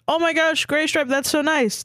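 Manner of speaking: high, gushing squeal at no extra volume; mild mock scream. A narrator's reading. Flattered kitten answers a proposal, high mock scream. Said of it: "Starkid screamed".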